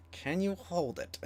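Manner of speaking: hesitant hushed request; timid ask. Retold or imitated. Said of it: "And I was like".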